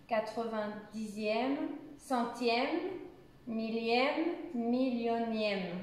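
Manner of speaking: clear, even reading of the list; pronunciation reading. Shown as a demonstration. Teacher reads the whole list aloud so students copy the pronunciation. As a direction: read each ordinal distinctly like a drill. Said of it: "je le relis une fois pour la prononciation".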